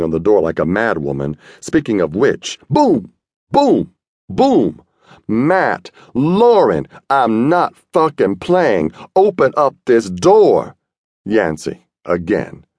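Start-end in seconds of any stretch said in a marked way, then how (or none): 2.7-4.8 high, loud voiced booms; imitated door pounding; pounding knocks. A narrator's reading. 5.3-10.8 higher, slower, furious shouting; angry yell. A narrator's reading. Yancey yelling through the door.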